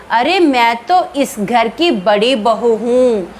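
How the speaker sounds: slow, eerie ghost voice, only lightly laughing; a ghost daughter-in-law revealing herself, slow and strange. Acted. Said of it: "परछाई हंसते हंसते बोलती है". (धीमी, अजीब भूतनी की आवाज़)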